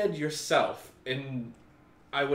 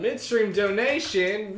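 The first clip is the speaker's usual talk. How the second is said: surprised; 7 semitones higher, 9 dB louder, slower than usual. Real, not acted. Surprised at midstream donation.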